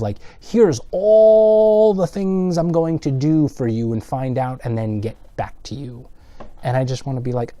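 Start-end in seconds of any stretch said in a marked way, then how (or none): 0.4-6.1 high, slow mock of a lawyer's empty promises; lightly hammed-up corporate lawyer reeling off promises; mock lawyer promising. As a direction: drag it out like a smug lawyer promising everything. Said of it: "it's almost in the vein of".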